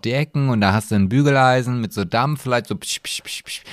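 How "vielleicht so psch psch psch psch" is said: Dampfgeräusch nachgemacht. Retold or imitated. Imitates iron steam sound.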